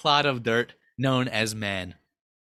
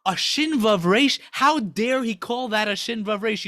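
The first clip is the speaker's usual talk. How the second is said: higher, indignant protest; mock outraged screaming; 4 semitones higher than usual. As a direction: imitate a scandalized crowd of angels. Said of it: "they start screaming".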